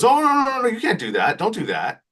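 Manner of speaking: high startled no no no, then settling; mock alarmed boss waving them off; superintendent stopping them. Superintendent voiced stopping fight.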